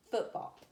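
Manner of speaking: FOOT-BALL, both syllables of football stressed; spondee stress. Shown as a demonstration. Teacher demonstrating a spondee, football stressed on both syllables. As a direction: give "foot" and "ball" in football equal weight. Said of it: "is stressed, stressed".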